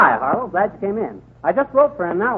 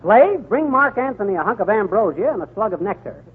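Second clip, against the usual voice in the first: grand mock-royal welcome, played for laughs; hammed-up pharaoh; 2 semitones higher than usual. Fibber as King Tut greeting Mark Antony in a mock-royal voice. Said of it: "you're King Tut".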